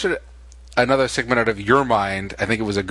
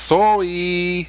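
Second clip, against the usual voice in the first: put-on Asian accent; 4 semitones higher than usual. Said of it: "There's a reason I did the Asian accent".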